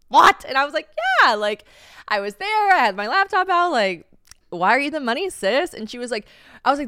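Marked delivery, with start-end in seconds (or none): 0.1-0.5 much higher, louder shocked cry; shocked what. Retold or imitated. Mom shocked at wire idea. 1.2-5.7 higher, louder eager protest; excited defense. Retold or imitated. Defending herself to mom, excited.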